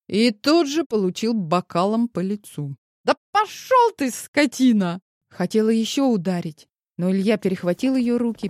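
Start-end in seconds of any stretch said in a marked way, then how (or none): 3.0-5.0 high, loud furious outburst; furious shout. Acted. Drunk wife screaming at her husband after hitting him, furious. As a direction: hurl it at him. Woman hits husband with glass.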